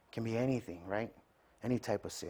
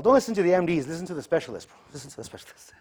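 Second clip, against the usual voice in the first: imitating friend; 7 semitones higher, 7 dB louder, faster than usual. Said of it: "he's all".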